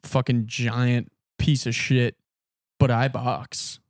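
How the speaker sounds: slow, drawn-out mock boast; slow mocking retelling of a boast; boastful comedian. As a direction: lightly imitate a self-serious brag, word by word. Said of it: "he's like, he's like".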